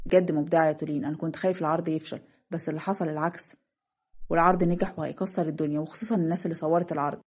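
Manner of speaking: a hint of relieved admiration; lightly voiced proud man.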